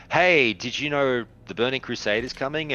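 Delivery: put-on chirpy content creator; mock casual-content host. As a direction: announce old news as if it were fresh. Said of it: "We're not gonna do the".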